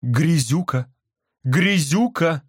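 scolding. A narrator's reading. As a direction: drag out the word. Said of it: "сказала Барбара".

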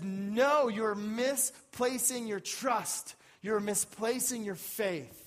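emphatic, forceful prophet's rebuke, slowing on key phrases; Isaiah's warning. Acted. Preacher voices Isaiah warning God's people against Egypt, forceful and deliberate. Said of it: "And Isaiah says".

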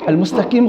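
"المستقيم" with k replacing q; wrong kaf. Retold or imitated. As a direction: say "المستقيم" as al-mustakiim. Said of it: "غلط".

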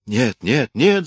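rising, loud pleading cry; frantic loud no. A narrator's reading. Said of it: "закричал сын".

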